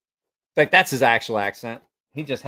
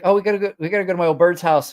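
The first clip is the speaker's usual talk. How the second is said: louder, lively imitation British friend; attempted British accent; 5 semitones higher, 5 dB louder, much faster than usual. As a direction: imitate a British mate, badly. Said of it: "can't do a British accent".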